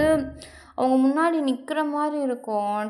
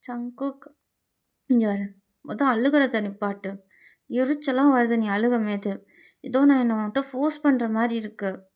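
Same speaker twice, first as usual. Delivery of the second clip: A singer. Acted. A singer voiced in story.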